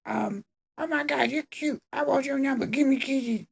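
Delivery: very high, soft, breathy-sounding gush; a hammed-up smitten teen; swooning mock Emma.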